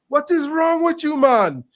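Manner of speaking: imitating the manager cutting off a guest's rant; retold hotel manager. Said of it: "he runs across the room and he's like".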